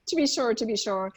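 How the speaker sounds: playful touch of Irish brogue; Irish accent. Retold or imitated. Teacher joking about Dublin post office, light Irish accent. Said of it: "with the Irish accent".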